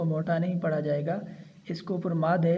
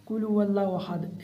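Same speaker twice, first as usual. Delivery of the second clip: rattled-off recitation, vowels cut short; hurried wrong reading; 3 semitones higher than usual. Shown as a demonstration. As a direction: rush through the verse carelessly. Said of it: "ऐसे नहीं पढ़ना". (जल्दबाज़ी में पढ़ना)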